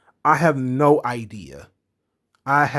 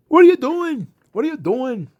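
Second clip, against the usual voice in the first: high mock yell, much louder at first, then falling back; imitated yelling; 12 semitones higher, 5 dB louder than usual. Retelling Nikki yelling at Alexa, high mock yell. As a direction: shriek the question at her, then fade. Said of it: "Nikki is yelling at her".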